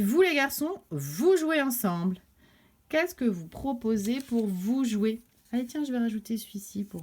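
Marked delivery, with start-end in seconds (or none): 0.0-2.2 maman. Acted. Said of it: "la maman dit".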